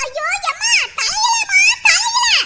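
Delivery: rising frantic shouts of alarm; alarmed cry. Acted. Girl cries out about fire.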